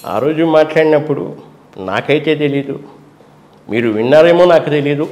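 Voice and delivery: easy conversational politician; normal-mode Jagan. Retold or imitated. Jagan impression in his normal everyday tone. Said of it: "ఇంకా మామూలుగా వచ్చినప్పుడు".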